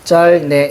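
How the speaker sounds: 짤, 네 split into separate syllables; step-by-step pronunciation. Shown as a demonstration. Teacher showing the sound after ㅂ drops, step-by-step pronunciation. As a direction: say 짤, pause, then 네. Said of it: "이렇게 난다".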